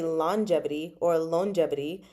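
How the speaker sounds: "longevity" said as "lon-jevity", without the hard g; first G dropped. Shown as a demonstration. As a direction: say "longevity" with a plain n before the j. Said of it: "it sounds weird to say".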